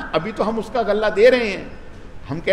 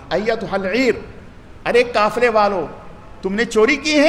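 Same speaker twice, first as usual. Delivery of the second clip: calling out; 5 semitones higher than usual. Acted. Royal herald calls after the caravan.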